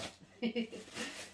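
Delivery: breathy little laugh; real chuckle. Real, not acted. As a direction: chuckle lightly to yourself. Laughs after her promise. (petit rire)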